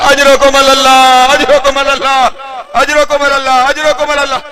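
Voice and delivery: slow drawn-out chanted refrain; slow condolence chant; mourning refrain. Real, not acted. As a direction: draw out the condolence to the gathering.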